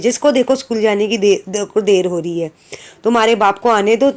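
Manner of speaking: ordinary talk, nothing marked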